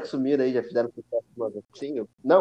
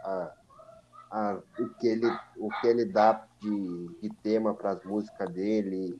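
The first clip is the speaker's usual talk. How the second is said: glitchy robotic audio; choppy, stuttering digital voice; half robot voice. Real, not acted. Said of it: "o Gleice tá com uma voz de robô". (voz robótica travando)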